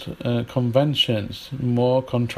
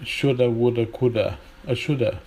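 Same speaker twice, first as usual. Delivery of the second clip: American accent. Shown as a demonstration. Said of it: "absence of schwa sound".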